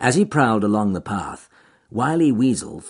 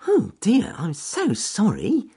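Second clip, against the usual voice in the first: cheerful rabbit voice; 12 semitones higher, slower than usual. Acted. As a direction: call up brightly to the trees. Rabbit sympathises.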